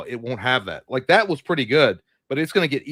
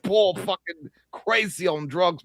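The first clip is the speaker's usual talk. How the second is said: put-on drunk British frat bro; 8 semitones higher than usual. Friend mocking the British AI as a drunk frat bro. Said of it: "dude bro from a frat college in Britain".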